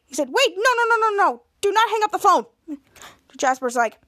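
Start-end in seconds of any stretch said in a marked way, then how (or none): 0.3-2.5 higher, urgent pleading voice; panicked plea. Acted. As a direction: stop them in a panic. Panicking to stop call.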